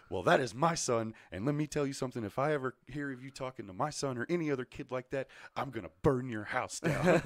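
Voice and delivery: retold angry mother laying down the law; protective mom threat.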